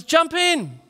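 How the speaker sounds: high, loud call across the water; yelling from the boat. Retold or imitated. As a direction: shout the offer to jump in. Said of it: "he yelled out to the man".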